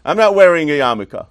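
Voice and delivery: a hint of a stubborn boy; defiant kid. Six-year-old refusing his father, mildly defiant. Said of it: "He's a six years old".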